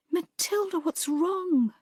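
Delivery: a startled, caring friend asking what's wrong; worried friend. Acted. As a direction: rush to her side with concern. Adele sees her friend crying.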